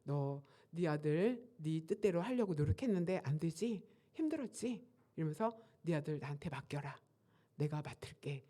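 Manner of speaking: a hushed, gentle voice of God, lightly done; softly voiced God. God speaking comfort to the grieving father, in a light hushed voice. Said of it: "하나님의 음성이 싹 들리기를".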